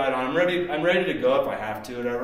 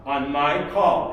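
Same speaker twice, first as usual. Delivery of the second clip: slow, steady repeat of the instruction; calm firm order; 5 dB louder, slower than usual. Retold or imitated. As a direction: hold your nerve, slowly. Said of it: "It's like".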